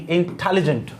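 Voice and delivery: "इंटेलिजेंट" with extra force on the टे; stress on the second syllable. Shown as a demonstration. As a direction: punch the टे in "इंटेलिजेंट". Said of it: "इस जगह जोर दिया". ("इंटेलिजेंट" में टे पर ज़ोर देकर)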